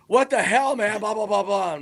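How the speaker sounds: imitating his own outburst at a friend; retold outrage. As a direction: fling it back in disbelief.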